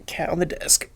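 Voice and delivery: hushed, breathy, to the cat; whispering. Real, not acted. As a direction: whisper it aside. Repeats to the cat.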